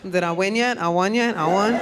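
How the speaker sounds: put-on cutesy Puerto Rican girl accent, questions tilting up; mock Puerto Rican accent. Lawyer asking whether she won, mock Puerto Rican accent. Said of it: "if you have that kind of accent".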